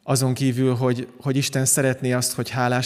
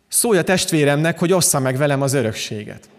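lightly raised heckler's interjection; mild mock call-out. Man in the crowd interrupting Jesus' sermon, mildly imitated call-out. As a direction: call out a demand, only slightly raised. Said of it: "valaki bekiabált".

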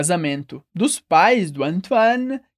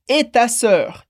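split into parts; much slower than usual. Shown as a demonstration. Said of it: "aqui a gente tem duas partes".

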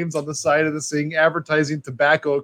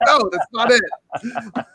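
a hint of mock correction; 7 semitones higher, much slower than usual. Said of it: "It's like".

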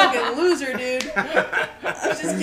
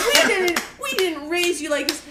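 Meryl Streep; 3 semitones higher than usual. Retold or imitated. Mom fakes scolding daughter before police, hammed-up outrage. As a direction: overact a parent's scandalized scolding. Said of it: "pretending to be Meryl Streep".

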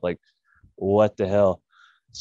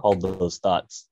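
slow; much slower than usual. Retold or imitated. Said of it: "Yeah, I said".

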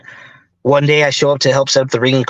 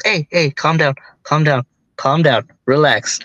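lightly imitating a soothing father; mildly calming, retold reassurance; soothing father mode. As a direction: talk someone down, with pauses between phrases. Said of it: "he was just so soothing".

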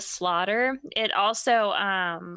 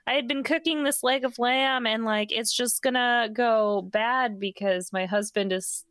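higher, sugary pretend worry; lightly raised mock-innocent offer; fake innocent wife; 3 semitones higher than usual. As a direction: coax the police like a sweet hostess. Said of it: "And then she's like".

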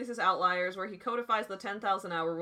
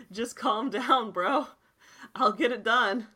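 louder, exasperated brush-off, slowed on calm down; exasperated retort; 3 semitones higher, 6 dB louder, slower than usual. Retold or imitated. To a pushy boss at work, a loud exasperated brush-off. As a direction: wave off a nagging boss.

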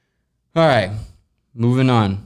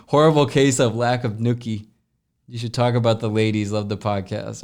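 incredulous reread. Real, not acted. Host rereading a prank question in amused disbelief. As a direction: read it back like you got played.

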